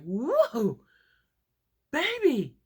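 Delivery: loud, high-pitched whooping; mock excited friend. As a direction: imitate a friend hollering it out. Friend's excited greeting acted out.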